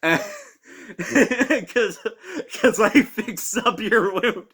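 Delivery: giggly mock character voice; laughing through the line. Retelling movie character quote.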